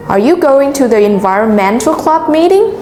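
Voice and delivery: teacher stressing key syllables in "environmental club meeting". Shown as a demonstration. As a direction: model question stressing going and the ment of environmental, rising on meeting. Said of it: "Notice how I stress on the highlighted".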